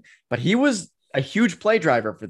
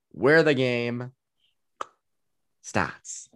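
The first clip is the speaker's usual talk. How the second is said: put-on Boston accent slogan; much slower than usual. Host reads the sponsor tagline in a thick Boston accent. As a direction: drop the r in starts like a Bostonian, spaced out for effect. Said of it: "Speaking of stats and Boston accents".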